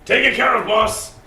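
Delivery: high, loud cocky call; gleeful henchman. Acted. Henchman calling out to his boss. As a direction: brag to the boss. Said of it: "Marcus just turns around".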